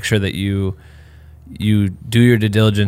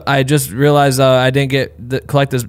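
higher, louder breezy "hey there" tone; casual upbeat email voice; 4 semitones higher, 3 dB louder than usual. Retold or imitated. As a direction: play it overly chill to hide embarrassment. Retelling his awkward payment email.

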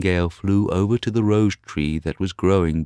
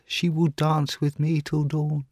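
put-on young student voice; 10 semitones higher than usual. Student dreaming.

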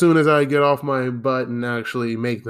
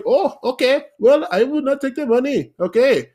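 high, light mock-meek voice of the landlords; high, airy put-on voice, way up; silly high voice; 10 semitones higher, 3 dB louder than usual. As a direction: squeak it out like a pushover. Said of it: "why did I say it like that?".

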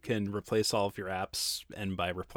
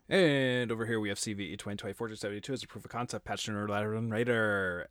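auctioneer voice. Pretend. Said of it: "I can't do this auctioneer voice".

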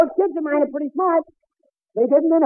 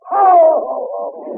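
Santa laugh; 3 dB louder than usual. Acted. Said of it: "Is that you, Santa Claus?".

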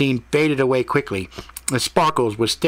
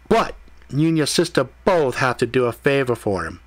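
measured, slightly raised storytelling voice; lightly voiced Mordecai-style questioner; 3 semitones higher than usual. Mordecai poses a test scenario to Ethan, lightly voiced questioner. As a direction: lay out the grim hypothetical piece by piece.

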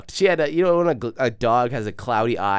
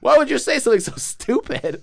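higher and louder, berating; angry scolding; 10 semitones higher, 5 dB louder than usual. Retold or imitated. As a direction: tell him off for being stupid. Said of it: "the cab guy starts giving me shit".

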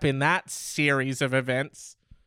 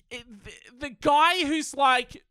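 high, exasperated lead-in; 9 semitones higher than usual. Real, not acted. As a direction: pitch up in disbelief. Exasperated outburst.

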